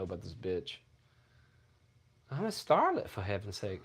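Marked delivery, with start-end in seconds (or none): 2.3-3.8 indignant quote. Retold or imitated. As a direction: snap it back like an offended star. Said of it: "she shot back".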